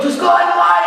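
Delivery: high, loud mock demand; comically frantic question; worked-up challenge. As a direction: throw the question out at full pitch. Same question, now high and loud.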